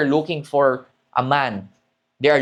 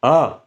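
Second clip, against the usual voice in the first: yawn into low ah; 5 dB louder than usual. Shown as a demonstration. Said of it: "yung last pitch is your diaphragm voice".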